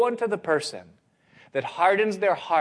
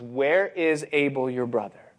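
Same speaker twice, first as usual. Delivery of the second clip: very clear. Acted. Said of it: "speaking to Cain very clearly".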